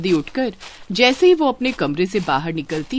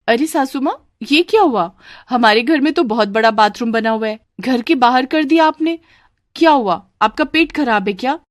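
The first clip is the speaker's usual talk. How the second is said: slightly raised, incredulous bride voice; astonished daughter-in-law; 4 semitones higher than usual. Acted. Bride asking mother-in-law about the dung, astonished. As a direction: question in mild shock.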